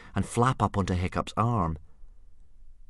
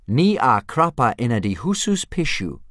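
loud, higher-pitched Dragonese phrase; 5 semitones higher, 7 dB louder than usual. A narrator's reading. Reader demonstrates common dragon phrases, in loud, high Dragonese.

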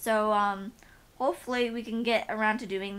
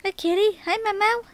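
much higher, louder coo to the cat; pet talk; 10 semitones higher, 7 dB louder than usual. Real, not acted. Greeting her cat.

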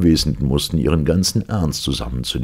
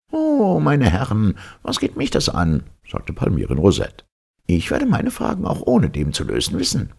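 dismissive professor; 8 semitones higher than usual. Acted. Professor brushing off the officers' question, lofty. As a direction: wave the officers away haughtily.

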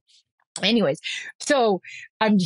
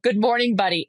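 light pet-talk greeting. Retold or imitated. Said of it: "it just rolled off the tongue".

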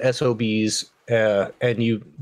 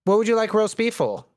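talking through a mouthful; words round a bite of food; mouth full; 8 semitones higher than usual. Real, not acted. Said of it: "sound like you got a mouthful of nuts".

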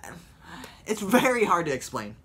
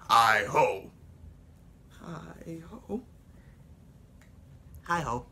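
different dwarfs each calling; dwarf voices; slower than usual. Retold or imitated. Seven dwarfs singing in turn, fading. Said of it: "number five is technically not just one character".

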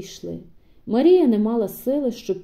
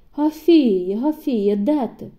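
louder call into the house; 5 dB louder, slower than usual. Acted. Korniy calls for Hafiika, louder call. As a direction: call her name, searching.

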